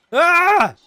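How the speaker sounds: loud, high wordless cry of frustration; frustrated yell. Real, not acted. Streamer boiling over about mustard on pizza, frustrated yell. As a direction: let out an exasperated shout.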